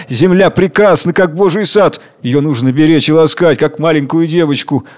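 worked-up, earnest pleading; excited. Acted. Second worker argues with the king, excited. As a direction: press the point with mild agitation. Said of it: "говорит возбуждённо".

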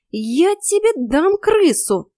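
high, drawn-out outraged threat; scandalised exclamation; indignant. A narrator's reading. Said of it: "возмутилась я".

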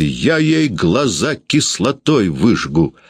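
slow, seething mild fury; a touch of trembling rage, drawn out slowly; jealous wife threatening her rival, slow seething. Acted. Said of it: "дрожащая от злости".

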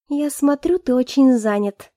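slow, cold, pointed words; said through teeth. Acted. Girl coldly jabs at busy Alex, slow and pointed. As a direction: let the jab drip slowly. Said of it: "процедила".

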